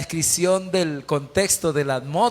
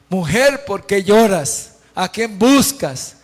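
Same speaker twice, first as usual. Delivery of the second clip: slightly projected, drawn-out questions; a touch of declaimed address to a weeping woman; raised questioning; 2 semitones higher, 5 dB louder, slower than usual. Acted. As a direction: put the questions out loud and slowly, lightly acted. Acts Jesus questioning weeping Mary.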